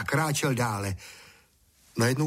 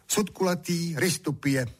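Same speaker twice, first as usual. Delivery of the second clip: serious voice; 6 semitones higher than usual. Acted. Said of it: "odpověděl vážným hlasem".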